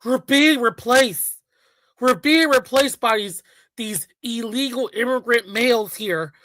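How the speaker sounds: hammed-up outcry, imitating a panicked man; mock alarmed complainer. Mock panicked quote of complaining white men.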